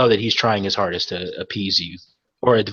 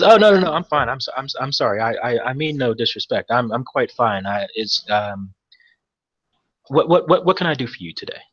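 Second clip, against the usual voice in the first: hammed-up jittery dockmaster; overly appeasing. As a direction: nervously insist you're fine. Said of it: "trying his hardest to be appeasing".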